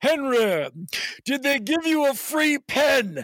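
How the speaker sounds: mock really loud, high voice carrying from a distance. At the back of an event while someone is on stage, imitating Mark's really loud voice. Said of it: "in this really loud voice".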